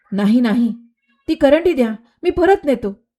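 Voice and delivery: high, urgent begging for the basket; panicked gardener pleading to take it back; frightened pleading. Acted. Gardener begs Meera to return the basket, high and panicked.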